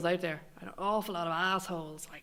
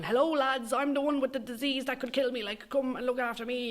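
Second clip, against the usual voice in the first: mock call for attention; 5 semitones higher than usual.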